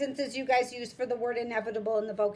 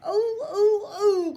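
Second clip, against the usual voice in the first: guards crying out; 7 semitones higher, 4 dB louder than usual. Acted. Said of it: "cried the guards".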